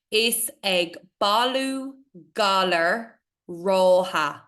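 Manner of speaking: rótha with a long aw; aw sound. Shown as a demonstration. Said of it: "A fada is pronounced aw".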